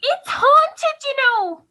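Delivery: teasing. Acted. Daughter teasing parents about house.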